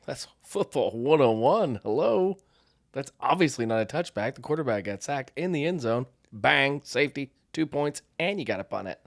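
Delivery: loud, high, cocky football lecture; cocky know-it-all. Retold or imitated. Man correcting his future father-in-law at football, loud and cocky. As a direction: lay down the rules to her family, sure of himself. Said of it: "And I go".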